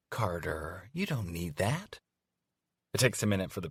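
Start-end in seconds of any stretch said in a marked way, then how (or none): 0.1-2.0 cooing. Acted. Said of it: "she coos".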